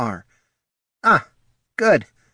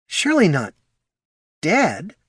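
gasped; 8 semitones higher than usual. A narrator's reading. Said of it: "gasped Poldo".

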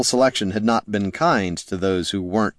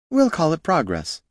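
higher-pitched, upbeat character voice; insisting pupil's defender; 10 semitones higher than usual. A narrator's reading.

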